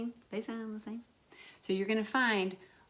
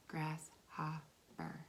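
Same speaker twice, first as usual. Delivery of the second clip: slow whispered "Grasshopper.", soft and unvoiced; 3 semitones lower, 10 dB quieter, much slower than usual. Shown as a demonstration. Teacher whispering the word while counting its syllables. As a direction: breathe "Grasshopper." out slowly, syllable by syllable.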